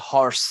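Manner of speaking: "হর্স" with a clearly breathed h; voiced h. Shown as a demonstration. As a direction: sound the h in "হর্স". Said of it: "এইচ এর মতোই হয়েছে".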